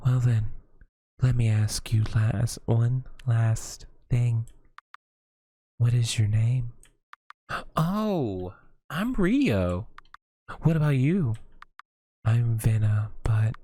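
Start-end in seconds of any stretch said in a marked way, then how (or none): 1.2-6.7 whispered then slow; hushed. Acted. Witch leans in to ask. 7.8-11.4 put-on high, eager little boy; bright gasp then quick answer. Boy eagerly gives his name.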